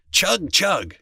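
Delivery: playful imitation of an engine; tractor noise. A narrator's reading. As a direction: chug like a toy tractor. Boy imitates his tractor.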